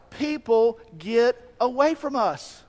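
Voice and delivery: dismissive disciples. Acted. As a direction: shoo people away with contempt.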